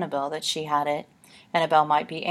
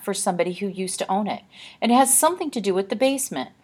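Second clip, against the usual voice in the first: put-on frightened girl; 5 semitones higher, 5 dB louder than usual. Olive confides her fear.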